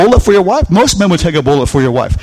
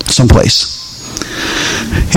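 whisper; 6 semitones lower, 3 dB quieter, much slower than usual. Real, not acted. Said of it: "this is being recorded, so I need to be more generic".

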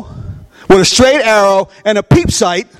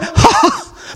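high mocking ha ha, much higher; giant's laugh. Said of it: "the minute he went".

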